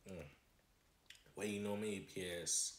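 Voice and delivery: eating between phrases; chewing while talking. Real, not acted. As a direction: mouth partly full of food. Seen 0: Holds burger, bit at -3s, mouth working between words.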